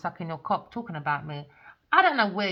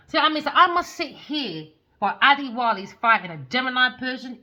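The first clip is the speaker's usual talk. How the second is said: loud, higher-pitched outraged rant; indignant; 5 semitones higher, 7 dB louder than usual. Real, not acted. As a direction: let the outrage burst out, loud and high. Indignant rant about being fought over.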